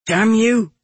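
grunted curse. A narrator's reading. Executioner knocked down by fleeing man, grunted curse. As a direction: curse at someone who just knocked you down. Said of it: "I grunted".

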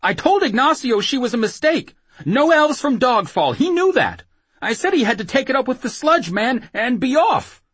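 frantic, high-pitched loud protest; feeble rage. Acted. Whoremaster blaming Ignacio to his attacker, feeble rage. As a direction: plead your innocence in a high, angry voice. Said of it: "quivering with feeble rage".

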